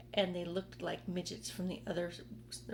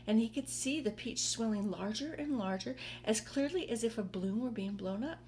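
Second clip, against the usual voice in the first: gentle read-aloud narrator voice; story narration. A narrator's reading. Reading James and the Giant Peach to listeners, gentle storytelling. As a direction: tell it like a bedtime story.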